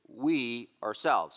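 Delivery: "we ourselves" drawn out, each word weighted; emphatic stress. Shown as a demonstration. Preacher pointing out the text's emphasis, slow emphatic stress. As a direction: stretch "we ourselves" slowly for emphasis. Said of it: "here's the emphasis".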